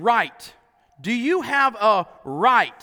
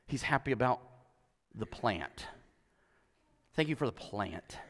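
much softer and lower, cooing; soft mock contentment; 10 semitones lower, 14 dB quieter than usual. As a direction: coo it like a satisfied child. Mocking Jonah's contentment softly.

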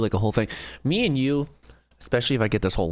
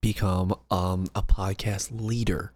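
mlm recruiter pitch; 4 dB quieter than usual. Pretend. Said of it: "This sounds like a pyramid scheme pitch".

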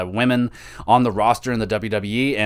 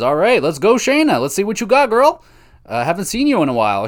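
high-pitched hype for a favorite; excited cheering; 8 semitones higher, 4 dB louder than usual. Real, not acted. Fan urging Shayna on in the final match, cheering. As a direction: cheer them on, voice leaping up high.

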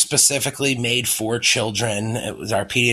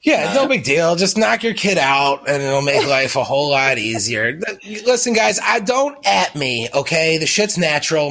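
mock defensive; 3 semitones higher than usual. Real, not acted. Defensive joke about drugging kids.

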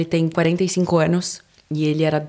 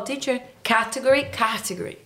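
higher, unsure learner checking the word; teacher asking his students to confirm a word, higher; imitating himself asking; 6 semitones higher, 4 dB quieter than usual. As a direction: ask the class for help, higher and hesitant. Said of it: "eu falo".

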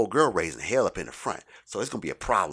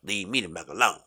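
loud mock tirade; retold ranting customer; 5 dB louder than usual. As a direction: imitate an irate shopper going off. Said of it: "just still just going off".

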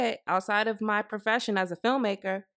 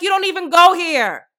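put-on loud, sneering mean girl; 7 semitones higher, 8 dB louder than usual. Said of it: "In my mean girl's voice".

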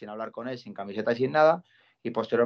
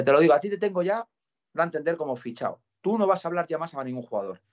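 policeman telling him off; 5 semitones higher than usual. Retold or imitated. Policeman threatening the fan outside the stadium, raised angry voice. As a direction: lay down the law, voice raised and pitched up.

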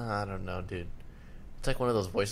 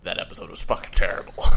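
mock-angry phone rant, imitating a friend; hammed-up verdict from a furious podcaster; aggressive friend impression; 4 dB louder, faster than usual. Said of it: "way too aggressive on the voice".

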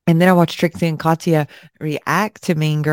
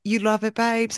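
softer, higher British echo; mock British accent; 3 semitones higher, 5 dB quieter than usual. Echoing friend's expression, mock British accent. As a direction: echo it in light fake British. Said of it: "any more of their expressions".

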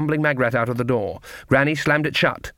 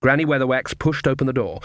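ordinary delivery, nothing marked

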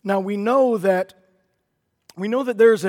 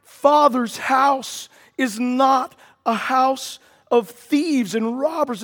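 powerful declaration; 4 semitones higher, slower than usual. Acted. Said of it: "he makes a powerful declaration".

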